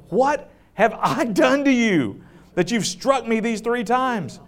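the hurt donkey asking why; lightly voiced talking donkey; donkey's voice. The donkey speaks to Balaam.

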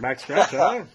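hint of an old-timey call. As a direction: throw it out like an old greeting. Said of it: "an old-timey voice".

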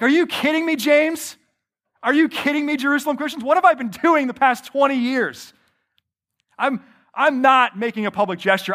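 high, fast, indignant protest; exasperated outburst. Pretend. Preacher imagining Paul ranting at James, exasperated and indignant. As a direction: let Paul blow up at James in disbelief. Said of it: "I might lose my mind in this moment".

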